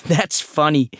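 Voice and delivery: high, laughing character voice; tickled, voice lifted; amused. A narrator's reading. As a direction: react with delight to a joke. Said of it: "Raymond is delighted when Sam laughs".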